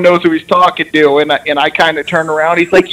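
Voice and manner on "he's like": ordinary talk, nothing marked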